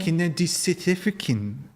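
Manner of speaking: a light attempt at a South African accent. Streamer tries South African, lightly voiced accent. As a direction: try South African, half-sure. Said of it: "That sounds like New Zealand".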